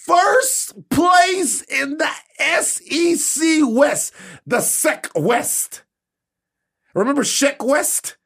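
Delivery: high, slow, teary whimper; blubbering like a baby; mock crying. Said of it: "I'm a baby".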